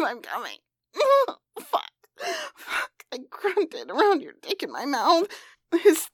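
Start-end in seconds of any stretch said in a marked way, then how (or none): 0.0-0.6 low, soft breathless murmur; faint gasp. Acted. 1.0-3.0 climaxing. Acted.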